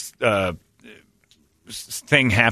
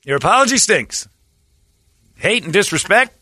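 high whiny complaining voice; mock offended fans; 8 semitones higher than usual. Host mocking fans rejecting the apology, high and whiny. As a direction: whine it like a petty critic. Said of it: "Well, they're like".

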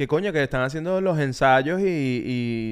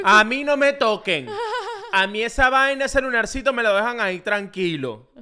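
laughing protest; 7 semitones higher than usual. Real, not acted. Jokingly refusing surgery.

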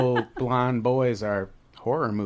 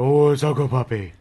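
puppy voice; 4 dB louder than usual. Retold or imitated. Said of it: "my voice when I go".

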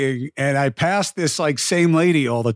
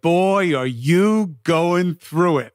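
drawn-out, raised imitation of the speed walker; retold speed walker; 3 semitones higher, much slower than usual. Speed walker looking at a passer-by, imitated, drawn out. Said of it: "she was like".

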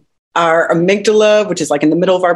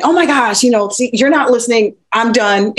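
higher, exasperated mock outburst, half-acted; reactive outburst; 6 semitones higher than usual. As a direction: play the upset partner who storms off, lightly. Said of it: "Instead of going".

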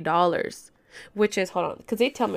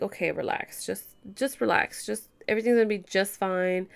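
softer, mildly reassuring self-talk; retold self-soothing; 3 dB quieter than usual. Caller telling herself to relax after crying, mildly reassuring. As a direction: imitate talking yourself down, quietly.

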